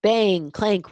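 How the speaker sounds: hammy clanging noise words; mock banging noises. A narrator's reading. Gus making ghost noises with pans, loud mock clanging. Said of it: "went Gus on his bang, clank equipment".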